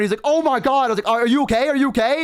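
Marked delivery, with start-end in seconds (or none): 0.2-0.9 high, startled gasped-out words; shocked exclamation. Retold or imitated. Mailman after being barked at, imitated in high shock. 1.1-2.2 high, urgent checking on someone; panicked concern. Retold or imitated. Checking on the fallen mailman, retold high and frantic.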